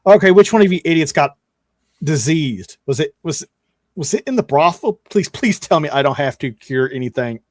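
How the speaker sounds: weary, put-upon sneer; exasperated cleric. Acted. Cleric to the party, fast and exasperated. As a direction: roll your eyes at the idiots. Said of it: "He's like".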